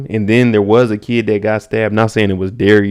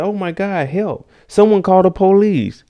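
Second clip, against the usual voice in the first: put-on panicked old lady; 10 semitones higher than usual. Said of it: "She's like".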